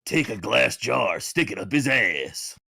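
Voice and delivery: a light Duke Nukem growl, slowed down. Retold or imitated. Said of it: "you sound like Duke Nukem".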